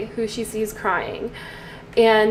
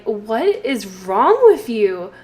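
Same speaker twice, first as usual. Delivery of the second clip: louder, offended protest; indignant outburst; 3 semitones higher, 4 dB louder than usual. Pretend. Caleb defends being a vampire to Lilith, indignant. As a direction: scold her like she's lost her mind. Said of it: "he's going to be like".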